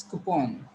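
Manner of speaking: coupon with an O in the last syllable, koo-PON; teacher modelling coupon with a clear O; correct pronunciation. Shown as a demonstration. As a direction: say coupon as "koo-pawn", open O. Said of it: "There is O sound here".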